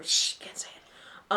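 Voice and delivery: unvoiced, slow whisper; hushed aside. Real, not acted. Co-host stopping short of an Irish phrase, whispered. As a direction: shush and whisper it.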